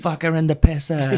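mock Boston accent, dropped R's. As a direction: join in with a put-on Boston accent. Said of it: "they have a Boston accent".

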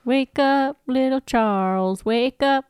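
lightly sung-song wake-up call; mock sinister wake-up. Ben wakes his rival in a teasing singsong. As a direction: coax him awake in a teasing lilt. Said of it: "do Widmore for me".

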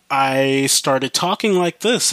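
slow demonstration of talking through the nose; practised nasal voice. Shown as a demonstration. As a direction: talk lightly through your nose, drawn out. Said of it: "I started talking through my nose".

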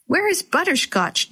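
understated alarmed shout; mild shout. A narrator's reading. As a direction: call out for the lost cat, lightly acted. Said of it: "Jenny shouted".

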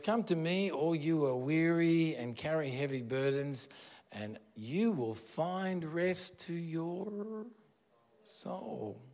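Jesus, tenderly inviting the weary; tender invitation. Retold or imitated. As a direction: offer rest gently.

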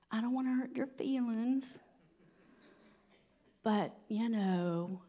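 soft, hesitant mock apology; mock apologetic. Preacher imitating those afraid to hurt feelings, soft and apologetic. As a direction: tiptoe through it, imitating a timid believer. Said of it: "We shouldn't be apologetic".

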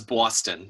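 "Boston" with an exaggerated rounded "aw" vowel; mimicked Boston pronunciation. Teasing a co-host's accent, "Boston" said as "Bawston". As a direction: imitate a local saying "Boston" as "Bawston". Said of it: "you get on me about my accent".

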